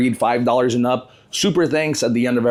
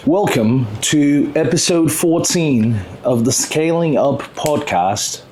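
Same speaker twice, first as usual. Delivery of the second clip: slow, careful British English podcast intro; slow British accent; slower than usual. Shown as a demonstration. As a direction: open the show in a slow put-on British accent. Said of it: "I might be stuck talking like this".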